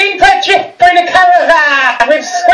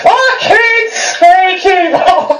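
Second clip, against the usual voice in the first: very slow drawl; 2 semitones higher, much slower than usual. Shown as a demonstration. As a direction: draw each word out even longer. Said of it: "how does he do that?".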